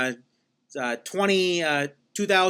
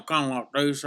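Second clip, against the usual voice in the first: soft Dakota accent sample; quiet, mumbled Dakota accent demo; slight Dakota accent; 2 semitones lower, 5 dB quieter than usual. Shown as a demonstration. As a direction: lightly demonstrate a western Dakotas accent. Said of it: "so it's kinda like that".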